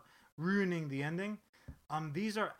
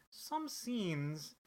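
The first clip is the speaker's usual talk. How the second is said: disclaimer voice; slower than usual. Retold or imitated. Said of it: "they'll even say".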